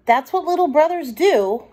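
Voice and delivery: a touch of motherly gentleness; mildly motherly. Acted. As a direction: explain it like a kind mother. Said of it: "in a very motherly tone".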